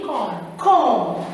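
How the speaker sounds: "comb" repeated, each ending on M without B; silent B demo. Shown as a demonstration. Teacher leading class repetition, "comb" with silent B. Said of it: "You will say comb".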